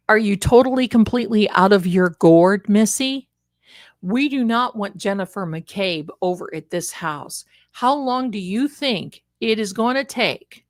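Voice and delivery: loud, scolding husband voice; imitated angry husband. Husband berating wife for her testimony, loud and scolding. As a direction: chew her out as the fed-up husband.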